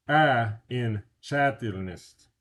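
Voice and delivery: "чательность" slowed, its "a" stressed loud; stress demo. Shown as a demonstration. Teacher marks the stressed vowel for students. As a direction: lean on the "a" in "чательность". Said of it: "only one stress".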